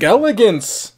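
grand, drawn-out pose line; dramatic anime voice. Retold or imitated. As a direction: strike a JoJo pose with it. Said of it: "every time it says elegance".

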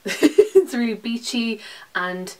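slow giggling words; giggly and slow; laughing. Real, not acted. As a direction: laugh through it. Laughing at herself.

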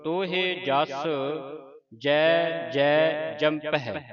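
slow, measured verse recitation; slow devotional reading; scripture recitation. Shown as a demonstration. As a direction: recite with long drawn-out vowels.

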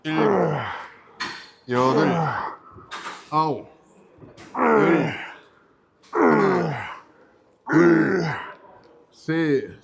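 loud, forced rep count; real grunting lifting effort; straining with effort. Real, not acted. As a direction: push each number out under heavy strain. Last hard reps of a set.

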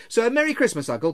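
high, loud farewell; defiantly cheery. A narrator's reading. Nephew saying goodbye to grumpy uncle, defiantly cheery. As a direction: wish him well brightly despite it.

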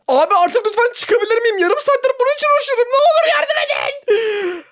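high, half-laughing desperate plea; whiny pleading. Real, not acted. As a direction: beg for help, half crying with laughter. Stuck, begging game for help.

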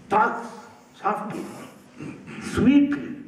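gently showing soft speech; soft sweet demo. Shown as a demonstration. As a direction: show how to say it sweetly, lightly. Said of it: "can be said sweetly".

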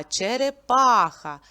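черепАха with a loud, long А; stress on third syllable. Shown as a demonstration. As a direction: punch and stretch ПА in черепаха. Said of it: "третій го-, е, голосний звук А".

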